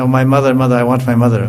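put-on singsong plea of a hungry baby bird, mild; lightly sung, whining for mother; baby bird crying out. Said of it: "he said".

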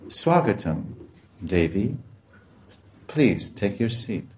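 understated, politely indifferent welcome; lightly acted formal host offering a seat; formal respect. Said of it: "speaking words of indifference and respect".

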